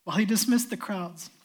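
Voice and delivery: steady, measured Bible reading; calm reading of the Gospel to the church; scripture reading. Acted. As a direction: read the passage clearly to the congregation. Reads the Gospel passage aloud.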